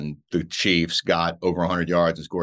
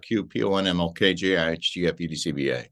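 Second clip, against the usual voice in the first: alphabet backwards. Shown as a demonstration. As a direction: rattle off the alphabet in reverse. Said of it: "can you really do the alphabet, say the alphabet backwards".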